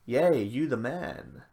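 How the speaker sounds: unconvinced token praise, drawn out; half-hearted cheer. Retold or imitated. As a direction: cheer with no real enthusiasm. Mocking the people's token praise.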